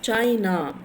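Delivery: "China" slow, weight on "Chai", "na" passed lightly; stress on CHAI. Shown as a demonstration. Teacher modelling word stress, "China" stressed on the first syllable. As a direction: lean on the first syllable of "China", let "na" drop. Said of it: "you are passing lightly".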